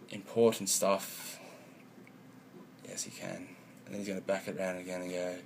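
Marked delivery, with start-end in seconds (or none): 2.9-3.5 deep mock reply. Answering self in another voice.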